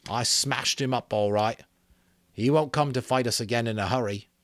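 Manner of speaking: a lightly voiced boy bragging; boastful Ralph. Ralph boasting to the twins about the fight, lightly voiced. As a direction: brag that you beat him, a hint of swagger.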